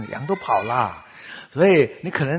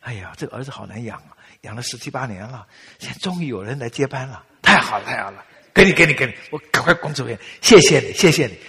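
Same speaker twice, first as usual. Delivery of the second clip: gleeful mother-in-law; 7 dB louder than usual. Pretend. Mother-in-law to son's girlfriend, jubilant and growing loud. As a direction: gladly hand the son over to his girlfriend. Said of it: "说".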